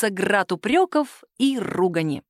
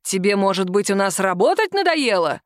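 mild blustering boss. Acted. Boss corners Sima, mildly blustering. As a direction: scold her while closing in. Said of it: "шумел шеф".

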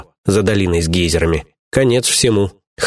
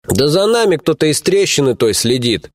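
лениво; 6 semitones higher than usual. Acted. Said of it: "лениво пояснил харьковчанин".

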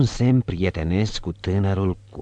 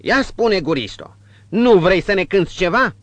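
high, loud sugary praise; fawning innkeeper; 12 semitones higher, 7 dB louder than usual. Acted. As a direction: flatter the girl shamelessly. Innkeeper asking.

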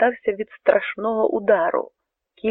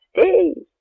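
much higher, loud halt command; guards shouting; 7 semitones higher, 3 dB louder than usual. A narrator's reading. Guard soldiers warning the Cossack off, shouting. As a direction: bark the order to stop. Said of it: "закричали вартові жовніри".

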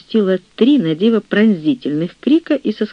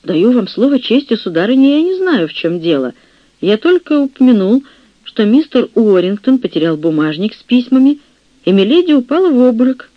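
high and louder, protesting innocence; flustered protest; 6 semitones higher, 4 dB louder than usual. Acted. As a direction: plead your innocence in a fluster. Flustered chaplain defending himself.

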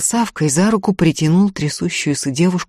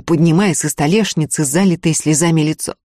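ordinary delivery

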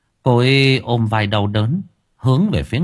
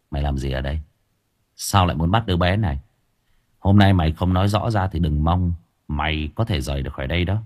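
low, quiet warning; cold threat; 5 semitones lower, 3 dB quieter, faster than usual. Acted. Monk quietly threatening the possessed man, low and cold. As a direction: press him, softly threatening.

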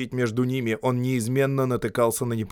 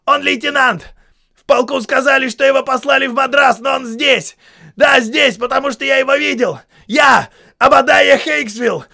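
высоко и громко орёт; орёт на шагнувшего индуса; 14 semitones higher, 9 dB louder than usual. A narrator's reading. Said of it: "заорал сержант". (громкий ор)

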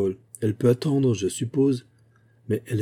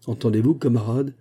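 shouting; 3 semitones higher, 3 dB louder than usual. Acted. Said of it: "cria Penfield".

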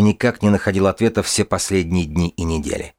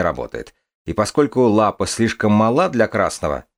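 sheriff voice; 3 semitones higher than usual. Acted. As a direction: lay out the evidence like a sheriff. Sheriff explains the evidence.

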